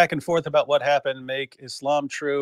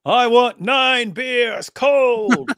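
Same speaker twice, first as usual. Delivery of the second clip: put-on British accent; 9 semitones higher, 6 dB louder, much slower than usual. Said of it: "British guy marches up to a barman and demands nine beers cold".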